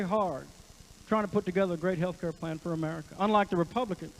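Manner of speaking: lightly voiced Clinton with a singer's flair; Bill Clinton. Comic doing Clinton on health care, lightly Southern. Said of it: "when I added Elvis Presley".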